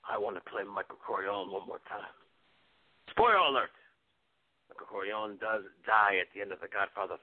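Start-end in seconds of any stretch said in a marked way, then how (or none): 3.1-3.7 excited. Acted. Sudden exclaim.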